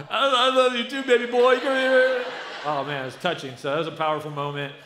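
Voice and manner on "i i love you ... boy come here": much higher and louder, laughing through tears; a choked-up father, half laughing, half crying; reenacted tearful reply. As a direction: relive the moment his voice broke with emotion. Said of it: "I bawled like a baby".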